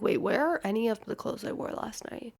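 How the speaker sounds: whispered, slowing down; panicked whisper. Retold or imitated. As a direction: whisper it in sudden alarm. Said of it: "Wait, I'm like".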